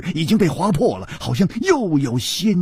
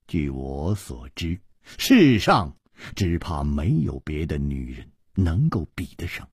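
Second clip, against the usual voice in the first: low, soft and tender; smiling praise; 9 semitones lower, 4 dB quieter than usual. A narrator's reading. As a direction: praise her gently, in a low unhurried voice. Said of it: "楚留香笑着说". (含笑低沉温柔地赞美)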